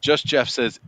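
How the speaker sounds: ordinary talk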